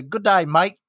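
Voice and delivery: hammed-up Australian accent; stereotypical Australian. American demonstrating his Australian for Australians, hammed-up accent. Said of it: "you do the stereotypical".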